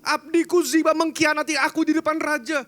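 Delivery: a touch of weeping protest; crying Mephibosheth. Acted. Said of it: "Mephibosheth nangis". (memohon sambil pura-pura menangis, jauh lebih tinggi)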